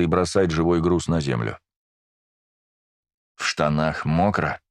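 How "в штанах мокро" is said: slow icy menacing question; жуткий ледяной голос. Acted. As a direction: ask it cold and slow. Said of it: "Жутким ледяным голосом спрашивает он". (ледяным зловещим голосом)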